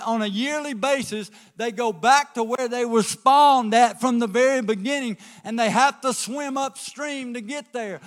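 loud, building preacher cadence; full-force preaching. Acted. Pastor urging the congregation to stay tied to the dock, preaching loud.

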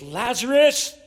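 calling out high and loud; Jesus calling Lazarus out of the tomb, loud. Retold or imitated. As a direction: call him out of the grave. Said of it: "Jesus called out in a loud voice".

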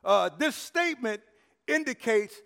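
rising sermon cadence, punching "but God"; preaching. Acted.

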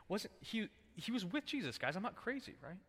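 put-on high excited girl. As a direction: convince the bystanders she is right. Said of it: "she's like".

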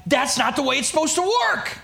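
retold exasperated rant; exasperated complaint. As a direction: complain like the plan betrayed you. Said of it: "I was like".

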